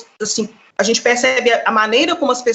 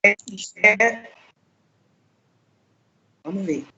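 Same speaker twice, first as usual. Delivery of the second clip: breaking up; 4 dB quieter than usual. Real, not acted. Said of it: "você tá travando um pouquinho aí".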